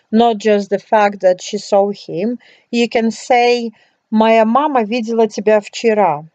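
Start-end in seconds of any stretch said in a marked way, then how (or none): 4.1-6.3 вчера lifted and stressed at the end, faster. Shown as a demonstration. Teacher showing a student how to stress вчера. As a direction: land the weight on вчера to stress yesterday. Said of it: "If you want to emphasize that it happened yesterday".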